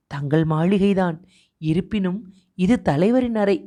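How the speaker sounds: usual speaking voice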